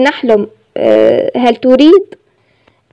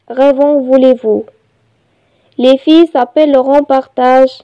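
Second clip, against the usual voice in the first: measured reading with pauses between phrases; poem recitation; much slower than usual. Shown as a demonstration. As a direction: recite it line by line, evenly paced. (إلقاء قصيدة بتأنٍّ)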